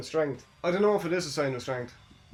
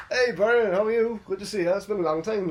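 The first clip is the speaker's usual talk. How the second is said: hearty greeting; 5 semitones higher, 4 dB louder than usual. Retold or imitated. Acting out Barrett's commentary greeting.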